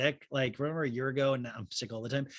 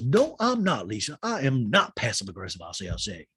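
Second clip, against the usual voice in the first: Sutton imitation; 3 semitones lower than usual. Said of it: "And then she goes".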